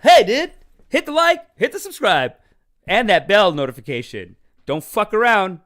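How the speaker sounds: loud, high YouTuber yell; pop-up shout. Pretend. Pop-up at bottom of his stream, loud hype yell. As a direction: bark the subscribe plea. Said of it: "I pop up at the bottom".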